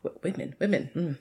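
soft near-whisper; hushed reverence. Retold or imitated. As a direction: breathe it as if it's precious. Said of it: "my mind's like".

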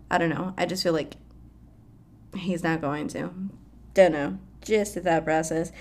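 ordinary talk, nothing marked

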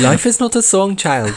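high-pitched mock Asian accent; hammed-up mock Asian accent. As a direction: put on a joking Asian accent. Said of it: "like, an Asian voice".

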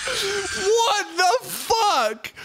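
slow, drawn-out horrified what the fuck; dragged, high, aghast reaction; stunned disbelief. Real, not acted. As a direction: stretch it out, appalled. Shocked reaction to host.

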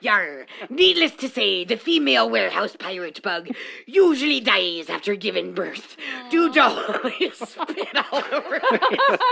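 hammy pirate narrating; laughing cartoon pirate. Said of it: "pirate voice".

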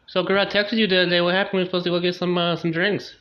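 nagging friend about missed drinks; gossipy girlfriend. Retold or imitated. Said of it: "Fire comes back".

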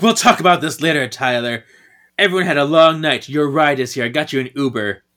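half-hearted yell that eases off; mock yelling. Paige sends Tyler off to his ride, mock yelling. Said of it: "Paige is yelling at Tyler".

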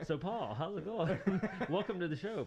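high, loud teasing through laughter; laughing. Real, not acted. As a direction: greet him while cracking up. Teasing co-host's alias while laughing.

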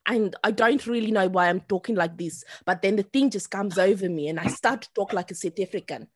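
lightly put-on South African accent. Shown as a demonstration. Demonstrating an accent that comes over her, South African. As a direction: slip into a South African accent as you talk. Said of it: "start talking in the accent".

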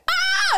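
brief high-pitched excited scream; retold scream. Contestant retelling her excitement at the audition, high retold scream. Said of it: "And I, like, screamed".

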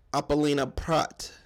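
Apolina Prat with a trilled Spanish r in Prat; rolled r. Real, not acted. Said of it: "I don't know why I rolled my tongue on that".

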